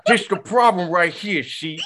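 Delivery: high, laughing mock scolding; teasing a friend through laughter. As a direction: scold him while cracking up.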